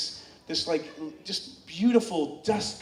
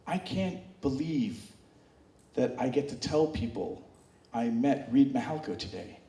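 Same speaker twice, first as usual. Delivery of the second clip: awed fan; 4 semitones lower, 5 dB quieter than usual. Retold or imitated. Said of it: "he's like".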